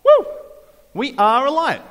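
high, loud mock cheer of delighted followers; excited cheer. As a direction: whoop it up like a thrilled crowd. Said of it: "I imagine the followers are like".

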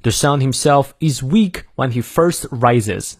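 slow, careful American English reading; American accent, R sounded in "first"; American pronunciation. Shown as a demonstration. Teacher repeating the model for learners, American pronunciation. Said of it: "再来一遍".

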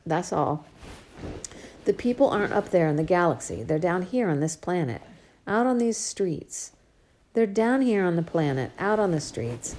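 father urging his daughter to be normal; earnest father lecturing. Acted. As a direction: bring her back down to earth.

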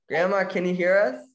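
calling out. Real, not acted. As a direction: call out to be heard. Calling to muted grandma on Zoom.

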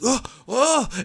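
falling and flailing, played for laughs; mock panicked yelp. Priest falling into grave.

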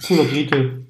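talking with food in mouth; words round a bite of food; mouth full. Real, not acted. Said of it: "red nicht die ganze Zeit voll Mund".

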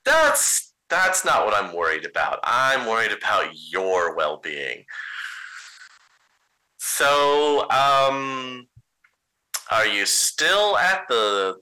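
frightened friend checking in; worried shaky voice. Acted. Doolin worried on phone.

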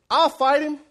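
loud, high, sudden declaration; bold volunteering. Acted. David volunteers against the giant, loud and bold.

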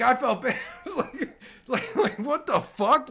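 laughing through the words, pitch up; can't hold back the laughter. Real, not acted. Host laughing at own apology.

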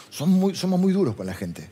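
whispered confession; a hushed aside to the congregation. Real, not acted. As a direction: drop to a hush as if admitting a fault. Confiding rebuke to his audience.

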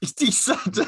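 high, falling echo of decent; high questioning echo. Retold or imitated. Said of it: "What do you mean?".

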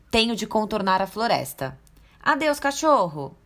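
put-on dismissive girl. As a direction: brush him off sweetly.

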